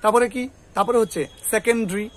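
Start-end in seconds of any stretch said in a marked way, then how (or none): 1.5-2.1 সেকেন্ডারি squeezed to "se-ken-dri"; three-syllable "sekendri" for সেকেন্ডারি; correct pronunciation. Shown as a demonstration. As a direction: drop the vowel before ri in সেকেন্ডারি. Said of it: "এরকম করে উচ্চারণ করবে".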